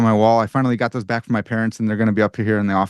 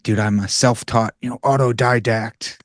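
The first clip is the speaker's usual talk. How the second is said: prideful; slower than usual. Retold or imitated. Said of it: "I was really prideful".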